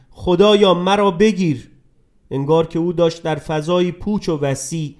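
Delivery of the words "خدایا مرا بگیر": mild cry. Acted. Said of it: "او فریاد کشید".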